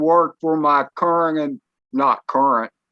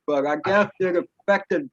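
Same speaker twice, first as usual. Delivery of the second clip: speaking with a numb mouth; slightly slurred, half-numb lips; numb face. Real, not acted. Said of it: "the whole left side of my face is numb".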